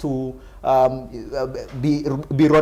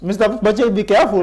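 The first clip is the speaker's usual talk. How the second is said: raised, higher-pitched cautioning interjection; urgent warning; 7 semitones higher, 3 dB louder, faster than usual. Real, not acted. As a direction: cut in to warn them off. Host cuts in warning guest.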